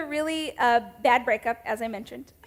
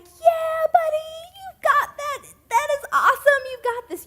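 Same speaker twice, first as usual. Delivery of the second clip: much higher, loud, gushing praise for a kid's playing; cheering parent; 4 dB louder than usual. Parent cheering a son's rough piano practice, high and gushing. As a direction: cheer your little boy on like he's a prodigy.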